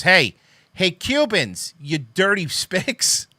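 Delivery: sneering caricature of a bigot, drawn out and slow; lightly voiced racist taunting the Cubans; mock bigot voice. Mocking the tweeter, a hammed-up slow bigot taunt.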